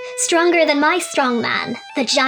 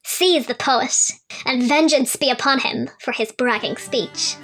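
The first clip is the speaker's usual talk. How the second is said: higher royal command, mildly angry; furious king; 3 semitones higher than usual. Acted. Insulted king orders guards to seize the poet, mildly furious. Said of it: "King Ubden was furious".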